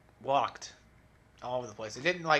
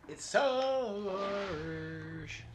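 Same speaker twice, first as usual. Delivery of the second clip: drawn-out complaint; 7 semitones higher, much slower than usual. Real, not acted. Complains about difficulty.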